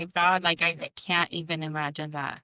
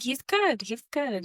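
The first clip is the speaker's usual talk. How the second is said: lightly reassuring, higher lift on the first good; 6 semitones higher, slower than usual. Retold or imitated. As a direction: soothe a worried child without fuss. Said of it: "kind of give her some reassurance".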